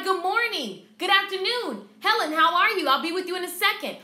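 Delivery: bright, loud welcoming hello to a client; cheerful greeting. Shown as a demonstration. Stylist greeting a client at the door, loud and cheerful. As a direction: greet them like you're thrilled they came. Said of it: "you need to be like".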